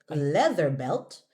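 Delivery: "leather belt" slow, voiced th with tongue between teeth; careful th. Shown as a demonstration. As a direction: model "leather belt" slowly for the student. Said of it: "we have to practice the leather belt".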